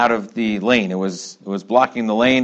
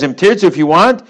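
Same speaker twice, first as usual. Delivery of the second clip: eager explaining quote; 9 semitones higher, 5 dB louder than usual. Retold or imitated. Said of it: "He says".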